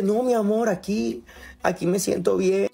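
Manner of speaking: voz aguda de mujer mimada; amante melosa. Retold or imitated. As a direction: responde meloso desde más arriba. Imita a la amante empalagosa. (amante mimada, voz más aguda)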